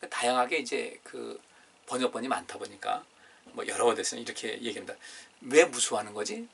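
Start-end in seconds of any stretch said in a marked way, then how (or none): 5.4-6.5 이해가 안 된다는 듯 묻는; 고개를 갸웃하며 "왜 무서워하는 거지?"; 의아한 질문. Acted. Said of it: "이해가 안 되는 표정으로". (제자들에게 묻는 주님, 의아한 말투)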